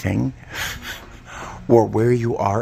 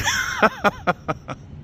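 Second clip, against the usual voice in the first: laugh. Real, not acted. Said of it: "Sorry for all the grunting".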